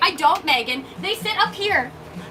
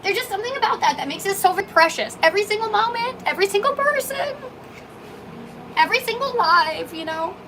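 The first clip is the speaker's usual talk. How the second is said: tearful; 5 semitones higher than usual. Real, not acted. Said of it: "wipe my tears away".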